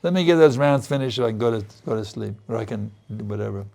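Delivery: fast, hurried mock inner voice; mock impatient thought. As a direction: rattle it off like you just want to sleep. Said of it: "You see how fallen we are".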